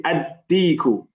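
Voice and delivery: "ad-deeku" with a doubled d; slow, teacherly "ad-deeku" with the article melting into the d; sun-letter pronunciation. Shown as a demonstration. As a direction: hold the d in "ad-deeku", no l. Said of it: "we put a shadda on it".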